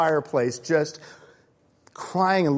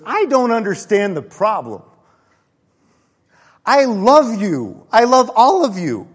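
put-on earnest girl's outburst; 6 semitones higher, 7 dB louder than usual. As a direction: belt out her love like a child who means every word. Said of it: "she goes".

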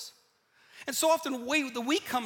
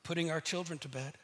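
humble brag; 6 semitones lower, 6 dB quieter than usual. Retold or imitated. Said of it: "You're like".

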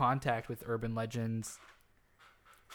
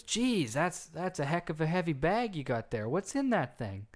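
higher-pitched, impressed stranger; surprised remark; 5 semitones higher than usual. Retold or imitated. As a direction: act out a man startled by a weight. Man remarks on heavy bag.

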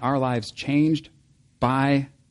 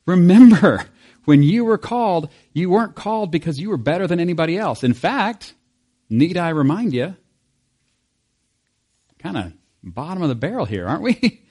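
stern Paul; 5 semitones higher than usual. Retold or imitated. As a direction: tell them off like an exasperated apostle. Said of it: "Paul's like".

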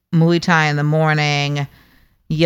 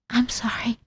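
high, soft, choked-up voice; Lexi; 8 semitones higher, 7 dB quieter than usual. Acted. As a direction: apologize in a tearful, squeaky voice. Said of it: "it's an emotional thing".

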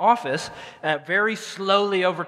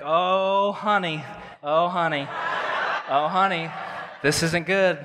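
put-on Southern Missouri accent; slower than usual. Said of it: "She's got a very strong accent".

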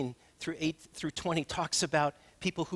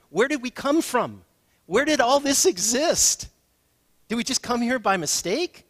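higher and louder impassioned questions; preaching at full force; 8 semitones higher, 9 dB louder than usual. Real, not acted. Pastor asking the big questions of origin, loud. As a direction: lift the room with big questions. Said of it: "preaching climax".

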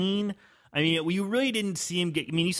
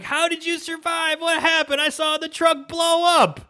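high, loud, stunned questions; hammed-up shock at a survivor; astonished; 11 semitones higher, 6 dB louder than usual. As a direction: shriek it in disbelief. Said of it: "And they're like".

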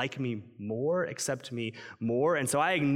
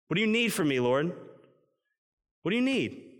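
much higher, louder, pleading shout; desperate cry to God; 6 semitones higher, 4 dB louder than usual. Retold or imitated. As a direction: cry out to God as if at wits' end.

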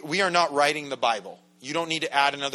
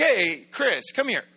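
called out higher and brighter, then hurried; friendly call-over; 4 semitones higher, 4 dB louder than usual. Retold or imitated. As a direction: wave him over cheerfully. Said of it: "he's like".

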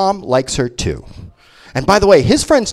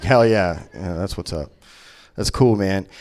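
low, softer dude voice; stoner fan voice; 9 semitones lower, 7 dB quieter than usual. Retold or imitated. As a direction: play a mellow fan mumbling approval. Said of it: "One Fleetwood Mac fan in the back is like".

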